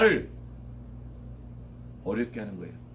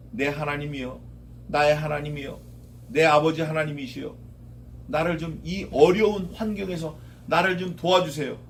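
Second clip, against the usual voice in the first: humble prayer. Acted. Acted humble prayer for help.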